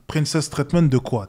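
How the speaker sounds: dry, mocking retort, own pitch; scornful. Real, not acted. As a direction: spit "Princess treatment de quoi" back with contempt. Scornfully throwing the phrase back.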